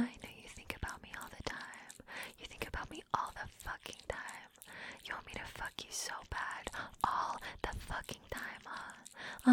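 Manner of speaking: very soft, voiceless murmur; taunting whisper. Acted. Dominant taunting partner about longing, whispered. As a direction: whisper it close and knowingly.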